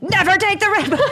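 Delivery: high, loud mock yell; over-the-top outburst breaking into laughter; retold freak-out. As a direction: yell it as a comic panicked command. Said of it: "It's like this whole freak out".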